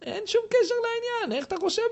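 imitating an angry shout in an argument; mock shouting. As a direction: blurt it out as a mock angry yell. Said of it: "ואתה צועק".

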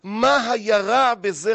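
usual speaking voice

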